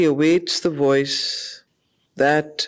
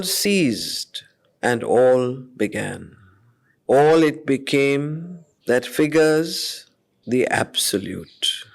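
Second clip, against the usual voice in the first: poem recitation. Acted. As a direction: let each line hang in the silence. Returns to reciting the verse.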